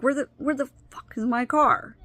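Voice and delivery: exasperated outburst. Retold or imitated. Wife retelling finding her car gone, mock furious. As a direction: toss off a retold swearing outburst.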